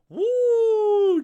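high, loud whoop; excited woo. Real, not acted. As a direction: let out a big cheer. Cheering a chat arrival.

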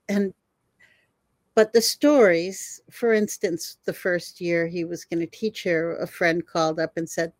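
ordinary talk, nothing marked

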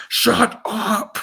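high put-on voice, a hint of a bookshelf guy; mock shusher. Quoting the guy behind the bookshelf, high mock voice. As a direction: hiss it like a fed-up extra.

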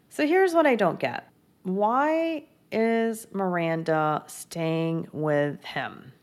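can't believe what she's seeing; baffled outburst. Real, not acted. Baffled by Miranda's choice.

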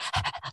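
quick, breathy panting like a tired dog. Shown as a demonstration. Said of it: "I sound like a dog".

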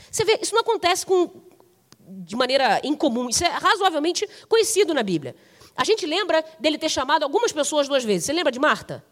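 usual speaking voice

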